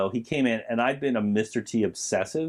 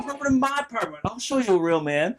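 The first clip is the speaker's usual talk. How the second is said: higher, fast Mister T line; Mister T impression; 10 semitones higher than usual. Quoting Clubber's line to the co-host, Mister T voice. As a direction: toss off the apartment line as Mister T. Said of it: "I remember thinking".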